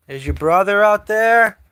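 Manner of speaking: high, loud calling out to the cats; high-pitched cat-calling voice. Real, not acted. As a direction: call them in, high and bright.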